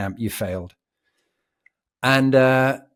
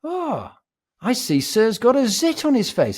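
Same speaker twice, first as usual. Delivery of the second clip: much higher sneering mock-polite voice; mocking instructor; 11 semitones higher than usual. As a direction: put on a sarcastic sing-song to mock the recruit. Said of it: "And he goes".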